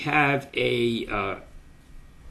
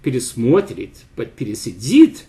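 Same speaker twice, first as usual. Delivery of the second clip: пересидит said louder than пересмотрит to set the stress apart; contrasting stress; 5 dB louder than usual. Shown as a demonstration. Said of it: "non-past tense".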